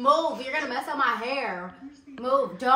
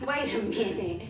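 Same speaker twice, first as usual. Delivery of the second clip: laughing; 3 semitones lower, 4 dB quieter, slower than usual. Real, not acted. Laughing fit after tickling.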